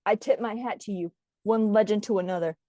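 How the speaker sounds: low-voiced outlaw tribute; low salute from one legend to another; solemn gunslinger. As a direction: play a grave gunslinger, pitched well down. Acted gunslinger tribute.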